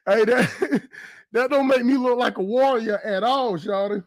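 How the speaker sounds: panting between words; out of breath. Real, not acted. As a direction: still catching breath. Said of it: "let me catch my breath".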